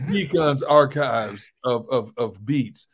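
a lightly voiced R&B DJ, slowed down; R&B radio DJ voice. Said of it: "your R and B radio D J voice".

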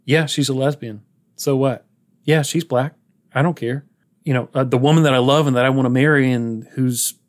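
imitating an unbothered, matter-of-fact man. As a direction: state each point evenly, no fuss. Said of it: "from simpleton to matter of fact".

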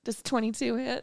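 mock smug. Shown as a demonstration. Player showing off the question they can always ask, mock smug. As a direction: ask it with feigned innocence. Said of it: "I love that smug question".

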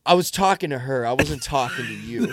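mock-stern comeback to a stranger; confrontational comeback. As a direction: put him in his place, playfully. Retold confrontation with yelling dude.

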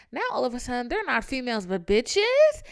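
rising to an outraged shout; building outrage. Real, not acted. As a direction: build the rant until it bursts on bitches. Building rant about ex's politics.

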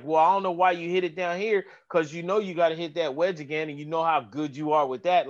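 dry mock sympathy, lightly played; sarcastic smart aleck. Caddy teases his golfer about the wedge, lightly sarcastic. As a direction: needle him with fake concern. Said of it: "being sarcastic and a smart aleck".

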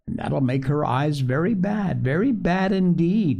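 weight on each "very bad"; impressive. A narrator's reading. Doctor warns Phronsie about crying, "very bad" said impressively. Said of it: "he repeated impressively".

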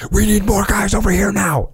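high, strained mock panic; imitating panicked radio call. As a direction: act like you're freaking out on the radio. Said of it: "Don't sound like that on the radio".

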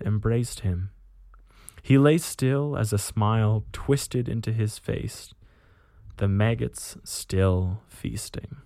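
measured, grim tale-telling; measured audiobook-style reading; story narration. A narrator's reading. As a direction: narrate a dark war story with deliberate pauses. Reads a war story aloud.

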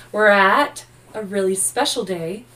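excited build-up. Real, not acted. Building up to cohost's birthday.

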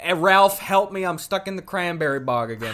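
loud hammed-up ad pitchman; mock commercial voice. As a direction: belt it like a cheesy TV ad. Mock cranberry commercial guy.

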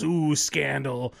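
slow, drawn-out fake gasping gossip; sarcastic ooh-ing at half speed; mock scandalized. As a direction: stretch every word in pretend shock. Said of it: "everybody goes".

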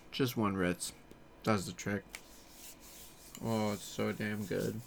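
talking while chewing a cracker; mouth full. Real, not acted. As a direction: speak through a mouthful of food. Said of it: "Sorry, I'm eating".

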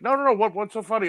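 very high, mock Southern husband; high-voiced North Carolina questioning; North Carolina accent. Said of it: "her husband has one".

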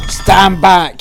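loud, high barked order; officer ordering someone back; police shout. Retold or imitated. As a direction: yell it like a cop at a door. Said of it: "he said".

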